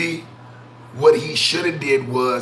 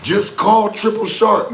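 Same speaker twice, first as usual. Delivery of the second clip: mock ad pitch; 7 semitones higher, 4 dB louder, slower than usual. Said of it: "mock ad for a roadside service".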